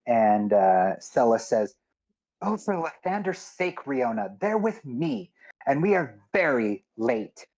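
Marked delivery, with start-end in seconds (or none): 2.4-7.5 higher-pitched exasperated plea. Acted. Sella calls up from the boat to the guard, exasperated. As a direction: plead impatiently to be let past.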